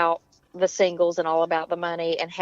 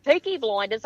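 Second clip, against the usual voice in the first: attempted British. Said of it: "I try to be British".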